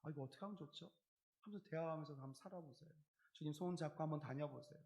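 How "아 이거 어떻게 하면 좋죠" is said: soft, intimate chat with God; softer heartfelt prayer talk. Shown as a demonstration. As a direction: speak to the Lord like a close friend. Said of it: "정말 소리 내서".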